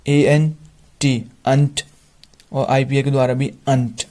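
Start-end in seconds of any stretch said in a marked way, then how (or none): 0.1-1.3 "एएनटी" spelled slowly letter by letter. Shown as a demonstration. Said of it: "ऐसे ही अंत". ("एएनटी" धीरे-धीरे अक्षर बोलकर)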